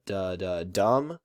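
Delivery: "da da dum" slowly, stress on the last syllable; two light beats then a stressed "dum"; anapest rhythm. Shown as a demonstration. Teacher demonstrates the anapest, stress landing last. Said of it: "There's the anapest".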